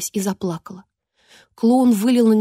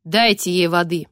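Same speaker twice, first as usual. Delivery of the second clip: commanding queen; 3 semitones lower than usual. Acted. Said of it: "приказала королева".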